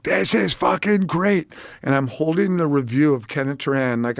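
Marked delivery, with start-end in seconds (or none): 0.0-1.5 slow gleeful mogul. Retold or imitated. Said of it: "he's like".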